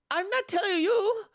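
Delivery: high, loud mock-Asian mom accent; bad Asian accent. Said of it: "that was a bad accent".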